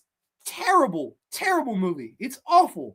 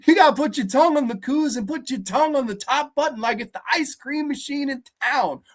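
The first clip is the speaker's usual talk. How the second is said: lightly mocked movie dialogue; Michael B. Jordan; 3 semitones higher than usual. Critic replaying an earlier scene, lightly put-on brotherly advice voice. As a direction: imitate a big brother giving advice. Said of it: "an earlier scene where Michael B. Jordan's".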